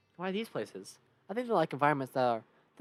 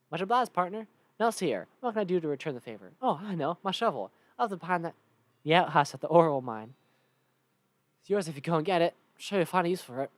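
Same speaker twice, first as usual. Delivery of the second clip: loud Southern cowpoke; hearty Southern character voice; Cactus Bill; 6 dB louder than usual. Acted. Cactus man offers a favor in thanks, loud Southern voice. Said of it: "Cactus Bill".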